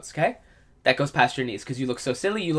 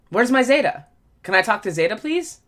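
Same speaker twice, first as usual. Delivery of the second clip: grandma voice; 5 semitones higher than usual. Pretend. Playing grandma asking for friend.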